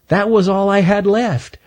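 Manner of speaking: high, small nervous squirrel voice; a timid young squirrel pleading; Stanley the squirrel. Acted. Stanley answers Earl.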